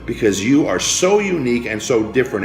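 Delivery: rousing preacher voice, pushing every line; preaching at full force. Acted. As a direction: preach it to the crowd, building and insistent. Motivational speech building to climax.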